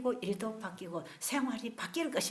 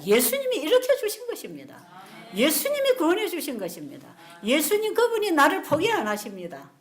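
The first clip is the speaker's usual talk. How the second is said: high, loud proclaiming; preaching crescendo; 5 semitones higher, 6 dB louder than usual. Real, not acted. Preacher proclaiming to the congregation, loud and high. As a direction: build it to a triumphant climax.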